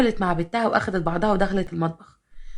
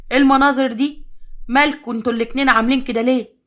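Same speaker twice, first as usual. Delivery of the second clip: higher and louder, appalled; shocked exclamation; 4 semitones higher, 3 dB louder than usual. Acted. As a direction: gasp at how they look. Mother-in-law shocked at their look. (استنكار مصدوم بصوت أعلى)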